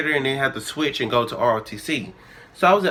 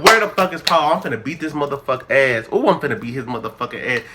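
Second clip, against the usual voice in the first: mad; faster than usual. Retold or imitated. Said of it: "I was so mad".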